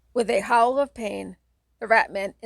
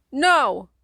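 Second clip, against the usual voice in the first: loud, higher whining no; whine; 5 semitones higher, 7 dB louder than usual. Acted. Kate refusing to go to bed, a loud whining no. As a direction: whine it, stamping a foot. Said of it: "Kate whines".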